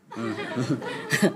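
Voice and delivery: ordinary delivery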